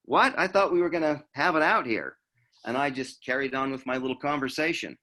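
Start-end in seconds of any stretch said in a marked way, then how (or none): 0.0-2.2 high, loud startled what, then puzzled; baffled what. Retold or imitated. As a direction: imitate his confusion, a sudden jump up on what. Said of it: "He looked at me like".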